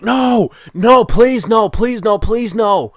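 high, loud mock-desperate begging; panicked pleading. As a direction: reenact a fan's rising dread, pleading at the TV. Reliving panic at a fumble.

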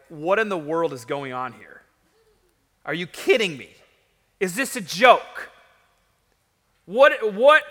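stunned questions, spaced out and mounting; incredulous Goliath. Acted. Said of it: "can't believe this".

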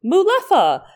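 high, loud creature cry; excited, high-pitched creature call; creature calling its name. Acted. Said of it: "they go".

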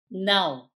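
NOW as the nasal Portuguese "não"; nasal Portuguese sound. Shown as a demonstration. Speaker demonstrating the Portuguese word for no, nasal NOW. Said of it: "a very nasal sound".

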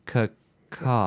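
cartoon bird caw, lightly voiced; Toucan Sam call. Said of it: "It fucking sounds like Toucan Sam".

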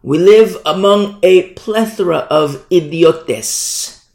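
ringing apostle's pronouncement, drawn out; Paul. Shown as a demonstration. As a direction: proclaim it slowly with a relished foreign word at the end. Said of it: "I'll say it like Paul".

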